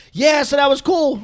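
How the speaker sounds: pitched high, loud and drawn out; mock cheerful reply. Host pretending to chat over a video lag, mock cheerful. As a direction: act out an over-enthusiastic reaction. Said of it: "I'm like".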